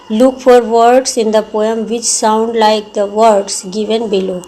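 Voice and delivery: drawn out, word by word dictation pace; slow textbook reading. Acted. Teacher slowly reading the exercise instruction to the class. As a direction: read the task slowly so all can follow.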